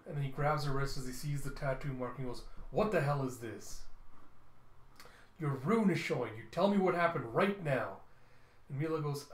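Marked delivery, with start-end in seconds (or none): 2.7-8.0 acted angry father; stern demand. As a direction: demand an explanation, key words punched. Father discovers the tattoo mark.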